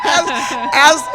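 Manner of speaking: cracking voice laughing. Real, not acted. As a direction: voice breaks into a laugh. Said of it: "as my voice cracks on that".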